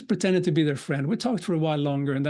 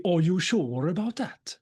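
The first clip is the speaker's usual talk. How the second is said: slow, sing-song Gothenburg accent; 2 semitones higher than usual. Shown as a demonstration. Speaker redoes the gunman's question for the audience, Gothenburg accent. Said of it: "in Gothenburg accent, that would be".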